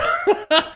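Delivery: short, high, real laugh. Real, not acted. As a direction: crack up at your own joke. Laughs at own Chick-fil-A joke.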